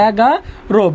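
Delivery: "এগারো" stretched syllable by syllable, ending in a clear o; demonstrated pronunciation. Shown as a demonstration. Teacher shows the class how to pronounce the number, "এগারো" slowly sounded out. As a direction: draw out "এগারো" and land on a round final o. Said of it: "উচ্চারণ হবে".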